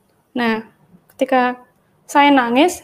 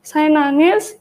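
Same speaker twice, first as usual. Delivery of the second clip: ordinary talk, nothing marked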